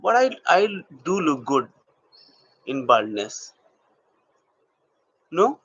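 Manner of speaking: slow acting demo with long, weighted pauses; acted monologue. Shown as a demonstration. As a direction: act out a halting confession, letting each phrase hang. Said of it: "and doing acting".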